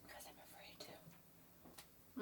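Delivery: slow, breathy whisper. Real, not acted. Baker peeking nervously at her oven, whispering. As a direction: hush as if the oven might hear.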